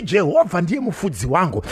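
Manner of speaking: a preacher's shout of faith; shouted declaration. Shown as a demonstration. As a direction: cry it out to the whole church.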